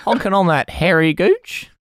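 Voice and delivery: laughing through a mock Kiwi accent; bad New Zealand accent, cracking up. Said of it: "not a very good New Zealand accent".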